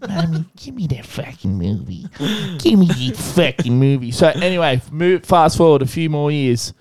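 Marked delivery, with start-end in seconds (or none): 0.1-4.1 put-on whiny kid pleading. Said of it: "I'm like".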